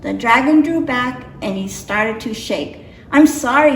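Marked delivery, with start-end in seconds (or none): 3.1-3.8 sputtered apology. Acted. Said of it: "he sputtered".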